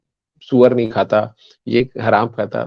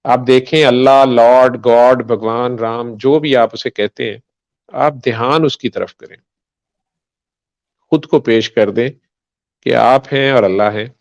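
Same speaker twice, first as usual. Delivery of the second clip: guided meditation. Shown as a demonstration. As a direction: lead them gently inward, unhurried. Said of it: "दुआ जो आप कह रहे थे मैं करवा दूं".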